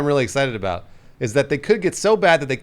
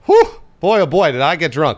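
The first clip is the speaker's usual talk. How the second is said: high whooping, louder, hammed-up; mock drunk whoop; 3 semitones higher, 6 dB louder than usual. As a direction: crow like a happy drunk. Mock drunk celebration after gameplay.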